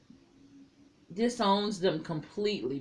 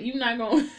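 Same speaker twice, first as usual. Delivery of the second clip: breaking into laughter; amused outburst; 5 semitones higher, 5 dB louder, faster than usual. Real, not acted. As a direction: rise into a laugh, words cut off by it. Cracks up retelling blurted confession.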